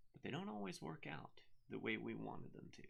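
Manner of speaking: soft, foreboding aside; ominous hush. Acted. Author teasing trouble in the next book, hushed. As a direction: drop the volume right down to hint at trouble.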